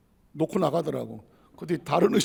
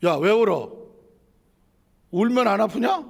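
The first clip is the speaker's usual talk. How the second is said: doctor's scolding. Retold or imitated. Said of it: "이러는 거예요".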